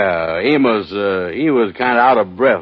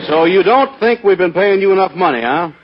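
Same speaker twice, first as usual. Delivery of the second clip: higher and louder, needling; mock angry challenge; 6 semitones higher, 3 dB louder than usual. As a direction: push him hard about the money. Andy confronts Kingfish about salary.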